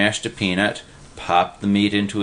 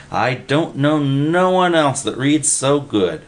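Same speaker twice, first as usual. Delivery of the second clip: higher-pitched eager sidekick voice; a wide-eyed eager pal; excited simple guy; 6 semitones higher than usual. A narrator's reading. Narrator voices Willie.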